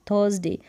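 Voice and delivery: थर्सडे with no audible r; correct THURSDAY pronunciation. Shown as a demonstration. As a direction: say थर्सडे as "thuhs-day". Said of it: "र का sound तो आपको सुनाई ही नहीं".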